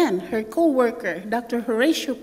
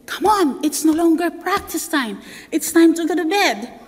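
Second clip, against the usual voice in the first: higher, a touch louder, coaxing to bed; dad urging; 5 semitones higher, 3 dB louder than usual. Retold or imitated. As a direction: send the sleepwalker back to bed. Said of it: "my dad said".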